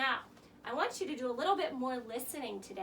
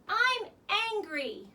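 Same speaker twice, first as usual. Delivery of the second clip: mock angry; 6 semitones higher, 7 dB louder, much slower than usual. Shown as a demonstration. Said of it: "tell someone".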